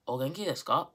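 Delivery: "desu ka" run together as dess-ka; natural spoken "desu", no vowel after the s; silent u. Shown as a demonstration. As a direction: drop the u in "desu". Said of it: "We say".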